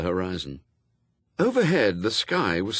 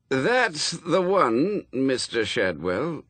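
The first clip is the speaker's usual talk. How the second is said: higher, slow, hesitant fussy voice; uncertain; 5 semitones higher, 3 dB louder, slower than usual. A narrator's reading. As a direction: let the words trail off, unsure. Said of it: "his words trailing into uncertainty".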